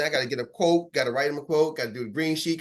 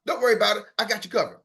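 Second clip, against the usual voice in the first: confident pitch; 4 semitones higher than usual. Shown as a demonstration. Confident sales call demo.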